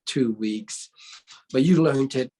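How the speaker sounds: a hint of an impressed teacher; proud master. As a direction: tell him gently he surprised you. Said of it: "and then I said".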